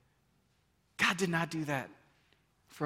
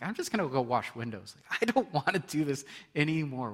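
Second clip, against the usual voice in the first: weary giving up; 3 semitones lower than usual. Retold or imitated. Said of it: "I'm like".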